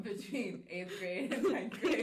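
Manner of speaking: slow, laughing confession. Real, not acted. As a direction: laugh through the words.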